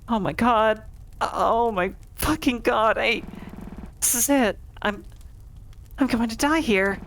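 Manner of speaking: high, trembling panic near tears; a trapped boy begging not to die; frightened pleading, close to sobbing; terrified. Acted.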